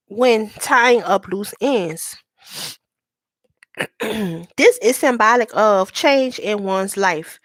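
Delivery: slow, measured card-meaning read; measured recital from a guidebook; reading aloud. Acted. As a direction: read it out deliberately, word by word.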